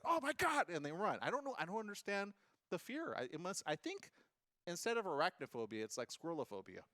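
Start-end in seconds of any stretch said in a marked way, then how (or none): 0.0-0.7 high, loud frightened squeal; friend's mock panic at squirrels, high and loud. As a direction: squeal as if terrified. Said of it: "they're like".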